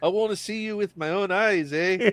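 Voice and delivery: put-on Luke's line with a Canadian accent. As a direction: lean into the Canadian, eh. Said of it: "A s-, slight Canadian accent".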